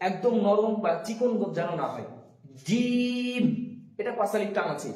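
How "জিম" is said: জিম in a heavy, thick voice; heavy jim. Shown as a demonstration. Teacher shows জিম in a heavy thick voice. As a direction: weigh down the জিম. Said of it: "জিমটা হবে ভারী গলায়, মোটা গলায়".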